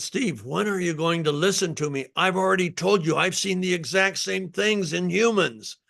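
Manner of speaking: lightly imitated Spanish accent, pitched a little up. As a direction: retell a colleague's exasperated words with a hint of a Spanish accent. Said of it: "in his Spanish accent".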